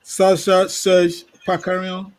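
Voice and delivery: name tried in a French accent, "Serge" as sɛʃ; careful French-accented attempt at "Sasha, Serge, Pakarian"; a hint of French accent on the name. Shown as a demonstration. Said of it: "let me make an effort".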